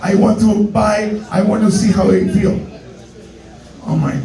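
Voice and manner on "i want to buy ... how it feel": slow, halting mock Korean accent; careful broken English with a put-on Korean accent; Korean lady. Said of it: "a little Korean lady".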